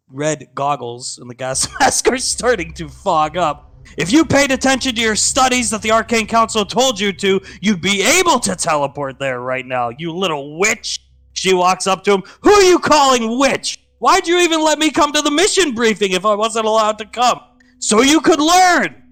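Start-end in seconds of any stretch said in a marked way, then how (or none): 4.0-11.0 higher, fast lecturing scold; scolding brother. Acted. Hunk blaming his sister for skipping her studies, scolding. 12.4-19.0 loud high indignant retort; indignant shouting. Acted. Sister and brother bickering, loud indignant retort. Quarrel between siblings.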